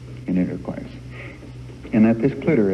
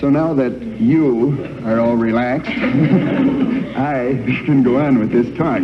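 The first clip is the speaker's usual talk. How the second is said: talks through his own laughter, pitch up and louder; laughing; 4 semitones higher, 5 dB louder than usual. Real, not acted. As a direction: still chuckling at his joke. Laughing right after telling joke.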